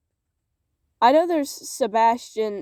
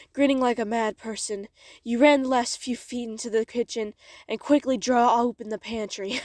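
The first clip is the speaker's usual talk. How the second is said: airy storyteller's narration; airy, expressive reading. Acted. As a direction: read on with expressive, airy delivery. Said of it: "airiness and expression".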